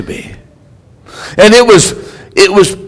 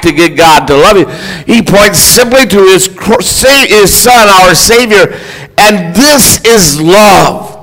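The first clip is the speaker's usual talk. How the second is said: preaching; 2 semitones higher than usual. Real, not acted. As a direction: preach it to the congregation, leaning on key words. Preaches the Easter message.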